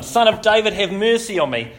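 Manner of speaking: high, loud cry for mercy; shouting over them. Retold or imitated. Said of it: "he shouted all the more".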